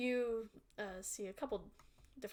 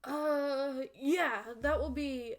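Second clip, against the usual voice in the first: loud slow troll shopkeeper; a troll baker naming his price; 5 semitones higher, 8 dB louder, slower than usual. Acted. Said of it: "That's my troll voice".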